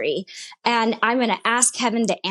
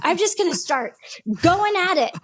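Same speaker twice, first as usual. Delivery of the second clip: higher-pitched fed-up retelling; exasperated threat; 7 semitones higher, faster than usual. Retold or imitated. Woman retells threatening God she'll give up, exasperated. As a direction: replay giving up in mock indignation. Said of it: "this was the kicker. I said".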